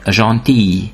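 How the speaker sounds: gentil ending on "ee", no L; French gentil with silent L. Shown as a demonstration. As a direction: say gentil as "zhon-tee", unhurried. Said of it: "vagy néha I-nek".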